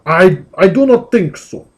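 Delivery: lightly voiced defiant demon; slow, haughty refusal; a hint of a villain; demon warrior.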